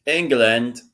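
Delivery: mock British accent. Co-host echoing England in banter, mock British accent.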